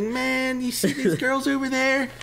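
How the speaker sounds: high, incredulous yelp; mock outraged old guy. Imitating the Wawa man yelling about an old customer. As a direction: squeal it like the outraged weirdo. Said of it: "He's like".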